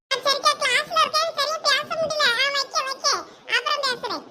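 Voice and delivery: high, jittery brush-off on the phone; a student nervously lying that she is in class; nervous, hurried. Acted. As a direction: rush to hang up, panicking. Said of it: "ஒரு மாதிரியா பதட்டமா பேசுற".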